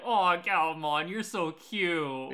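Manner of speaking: slow, drawn-out coo; stretched, adoring aww; fond cooing. Retold or imitated. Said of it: "I'm like".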